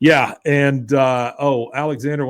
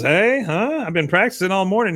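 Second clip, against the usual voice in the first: put-on high, eager kid voice; proud kid; 7 semitones higher, 3 dB louder than usual. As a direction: show off like a proud boy. Bobby voiced, proud of slapstick.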